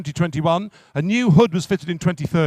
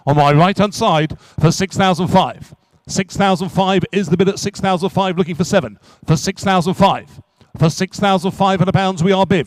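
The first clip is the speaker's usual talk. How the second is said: brisk auction-room patter, driving to the hammer; rhythmic auctioneer selling a classic car; auctioneer's call; 3 dB louder than usual. Acted. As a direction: call the bids to the room and close. Auctioneer calling bids.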